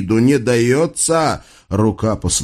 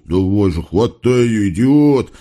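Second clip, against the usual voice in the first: hissing. Acted. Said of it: "шипят друг на дружку".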